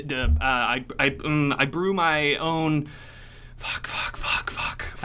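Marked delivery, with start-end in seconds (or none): 3.6-5.0 frantic whispered swearing; whispered cursing. Acted. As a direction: hiss it under your breath. Panicked under breath.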